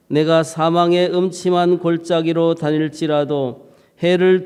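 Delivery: measured, solemn Bible reading; scripture reading. Acted. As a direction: read the psalm like a liturgy lesson. Reads Psalm 23 aloud.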